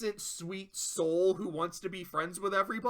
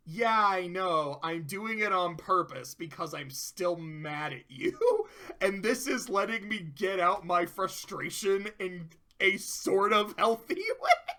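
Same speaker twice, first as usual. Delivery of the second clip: laughing. Retold or imitated. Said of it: "The other way to interpret that".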